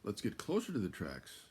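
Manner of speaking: high, loud, coaxing fox voice; sly little fox. Acted. Fox luring Cow to explore the countryside, high and coaxing. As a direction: tempt her like a playful little fox. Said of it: "said the fox".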